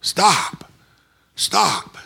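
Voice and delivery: high imitated cry; mock a man screaming a warning; retold screaming. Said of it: "he was still screaming".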